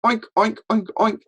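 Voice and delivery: high, loud oinking; pig oink. Shown as a demonstration. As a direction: snort like a pig, nose up. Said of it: "we would go".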